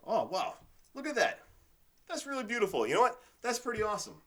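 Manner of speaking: delighted flower admirer; awestruck delight. Retold or imitated. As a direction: gush like you've never seen flowers before. Acting out admiring flowers by car.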